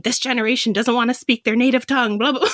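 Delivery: quick mock grumble breaking into laughter; imitated scolding, tossed off fast; imagined grumbling grandma. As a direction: rattle off a complaint, half laughing. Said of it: "she's probably walking out thinking".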